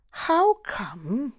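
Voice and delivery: high-pitched, lightly amused character voice; amused, laughing query. A narrator's reading. Geraint asking the narrator about the clever answer, lightly amused. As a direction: lift it high, with a touch of amusement. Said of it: "Geraint laughed".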